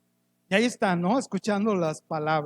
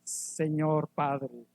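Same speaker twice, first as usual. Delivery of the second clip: stiff formal address; 5 semitones lower, 6 dB quieter, much slower than usual. Retold or imitated. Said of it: "aquí no dice".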